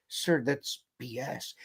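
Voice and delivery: very soft, timid near-whisper. Retold or imitated. Lieutenant reluctantly defies his captain as ordered, hushed near-whisper. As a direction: barely dare to say it, slow and hushed. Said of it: "I had to whisper it".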